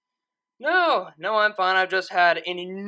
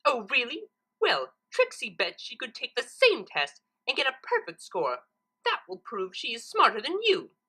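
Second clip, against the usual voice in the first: higher, cocky bet; cocky Trixie; 5 semitones higher than usual. Acted. Trixie betting Twilight she can ace the test, cocky. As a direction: boast with a confident sneer.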